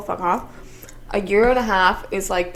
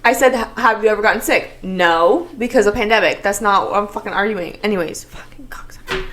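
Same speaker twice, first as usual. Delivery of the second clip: loud arguing; 4 dB louder than usual. Real, not acted. Heated mock argument.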